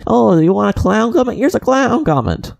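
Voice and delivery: mocking the commenter. Mimicking the rude commenter's retort, mock snide. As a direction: sneer it out as if throwing the insult back. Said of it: "you're like".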